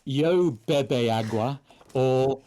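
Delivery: slow, halting Spanish attempt; trying Spanish. Shown as a demonstration. Learner from Duolingo tries Spanish, slowly and unsure. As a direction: sound out yo bebe agua slowly, unsure. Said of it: "I can't remember if it's".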